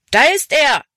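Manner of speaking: high, loud shout of alert; calling out. A narrator's reading. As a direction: shout it out to the gang. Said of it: "rief jemand".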